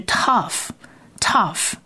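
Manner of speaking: tough said slowly, like taf; letter name demo. Shown as a demonstration. Teacher names letter tough for listeners, slow demo. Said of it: "它其实是".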